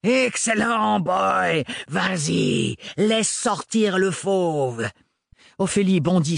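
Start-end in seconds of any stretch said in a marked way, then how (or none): 0.0-4.9 gleeful goading. Acted. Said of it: "le sans-peur riait aux éclats".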